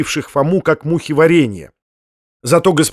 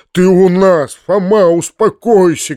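loud, higher urgent call; shouted; 5 semitones higher, 6 dB louder than usual. A narrator's reading. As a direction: shout over him to calm him. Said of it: "крикнул дядя".

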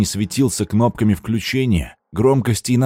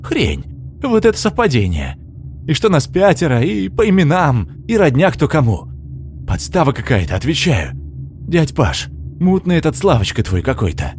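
raised, suspicious and accusing; indignant; 5 semitones higher than usual. A narrator's reading. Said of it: "возмутился Игорь". (возмущённо, с подозрением)

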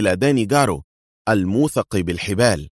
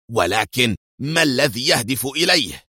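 exasperated; 4 semitones higher than usual. A narrator's reading. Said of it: "قال بغيظ".

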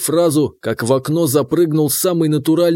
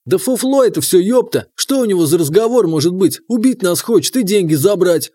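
raised, scoffing rant; indignant shouting; 4 semitones higher than usual. Acted. Familiar scoffs, shouting accusation.

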